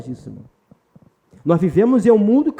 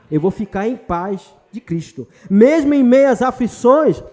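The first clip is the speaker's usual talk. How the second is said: slow, louder, weighty preaching declaration; emphatic declaration; 4 dB louder than usual. Real, not acted. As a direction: plant each word like a vow. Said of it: "pastor declares a decision to the congregation".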